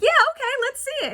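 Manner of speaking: doubt her sarcastically; sarcastic stepmom. Retold or imitated. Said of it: "stepmom's like".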